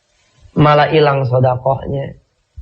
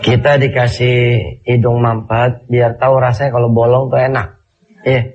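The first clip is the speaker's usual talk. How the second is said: stuffy nose, talking through a cold; blocked nose. Real, not acted. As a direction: sound congested, nose blocked. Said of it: "saya alhamdulillah pagi ini lagi dikasih hidung mampet".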